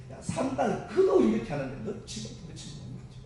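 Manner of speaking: loud, high-pitched divine telling-off; God's scolding. Retold or imitated. Preacher voicing God rebuking a believer over Shamgar's example, scolding. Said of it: "하나님이 하시는 욕을 좀 들렸어요".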